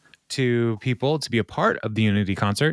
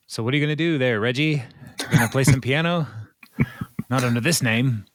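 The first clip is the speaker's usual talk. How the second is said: put-on terrible British accent; 3 semitones higher, faster than usual. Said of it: "That was a terrible accent".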